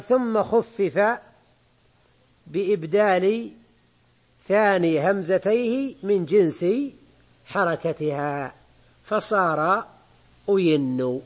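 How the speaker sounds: slow, measured reading of the text. Acted. Teacher reading the grammar book aloud to students, slow and measured. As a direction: read the quoted rule out deliberately to the class.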